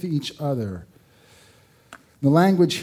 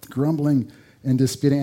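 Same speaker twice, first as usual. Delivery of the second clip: laughing. Real, not acted. Laughing after joke.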